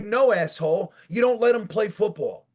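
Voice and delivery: mock tirade climbing to a shout; angry mock retort. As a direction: tell the coach off, building to a yell. Imagined retort to the coach.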